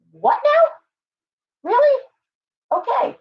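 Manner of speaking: high, loud, incredulous What now; mock gasp of disbelief, loud and high-pitched; stunned disbelief. A reader hearing a shocking family excuse, loud, high disbelief. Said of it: "you sit there and go".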